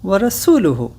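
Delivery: slow, syllable by syllable Arabic dictation; over-enunciate each Arabic word for repeating; said slowly. Shown as a demonstration. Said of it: "I will say this slowly".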